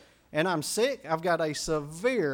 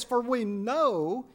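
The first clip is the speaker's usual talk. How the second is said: slow emphatic; 4 semitones higher, much slower than usual. Shown as a demonstration. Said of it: "who is she speaking of".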